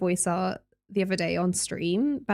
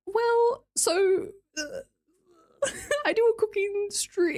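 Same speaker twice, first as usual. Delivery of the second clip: high-pitched confession with laughter; nervous laughing; 10 semitones higher, slower than usual. Retold or imitated. Admitting her Vatican cooking stream to a religious friend, giggling. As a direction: squeak it out through giggles. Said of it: "but I was like".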